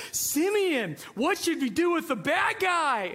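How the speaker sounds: slow, mildly put-on cartoon voice; cartoon character. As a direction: imitate a cartoon posing a question. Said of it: "the cartoon character says".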